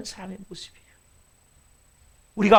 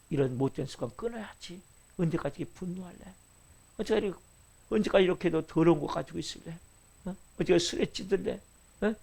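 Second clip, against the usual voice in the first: 1 quiet scolding Spirit; 4 dB quieter than usual. Acted. Holy Spirit rebuking believer.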